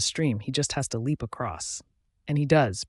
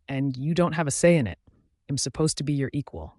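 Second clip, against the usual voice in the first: shaking with anger; 2 semitones higher than usual. Acted. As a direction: let the anger spill out. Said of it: "My voice is shaking in anger".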